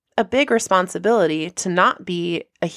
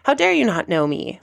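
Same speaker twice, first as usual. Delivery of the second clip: mock indignation. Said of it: "all the indignation inside of my body".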